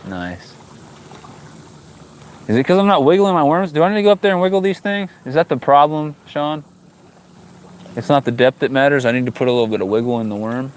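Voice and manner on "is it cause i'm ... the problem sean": higher, jokey indignation at the worms; mock indignant question. Real, not acted. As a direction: play up the outrage at your lure.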